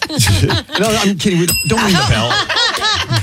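high-pitched words through laughter; laughing retraction. Real, not acted. Host taking back a joke about ringing the bell, laughing. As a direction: laugh off your own joke.

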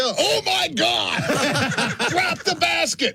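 high, slow panicked mom; alarmed parent. Acted. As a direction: shriek at the kid to drop it. Voicing parent at egg hunt.

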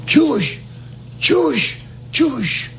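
high, urgent cry of the same word each time; hollered plea. Retold or imitated. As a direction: call it out high, begging to be spared. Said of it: "and hollered".

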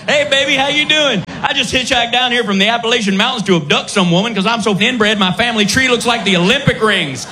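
hammed-up redneck Southern pickup line; Southern dude accent. Dude hitting on woman in singles bar, crude Southern accent. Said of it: "Dude with a Southern accent".

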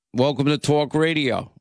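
put-on old New York radio greeting; thick New York accent. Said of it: "how thick my New York accent was".

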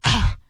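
breathy scoff of disgust, imitated; disgusted ugh. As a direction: let out a mock disgusted "ugh". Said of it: "looked at my car with such a disgust".

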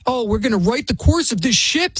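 lightly voiced mock of a TV host; a hint of a smug pundit voice; mocking quote. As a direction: sneer her words back in a prissy put-on. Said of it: "Sonny Hostin said".

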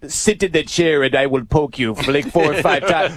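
lightly put-on Russian accent; a hint of a Russian accent, half-laughing. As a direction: mimic the Russian nurse's orders in a Russian accent. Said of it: "speaks in a Russian accent".

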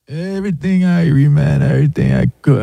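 a lightly done Jamaican lilt; Jamaican accent imitation. Pilot chatting with a passenger in a mild Jamaican accent. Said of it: "and he was like".

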